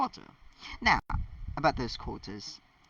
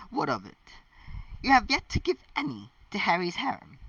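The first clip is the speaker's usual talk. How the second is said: stern; 9 semitones higher than usual. A narrator's reading. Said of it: "Hermione said sternly".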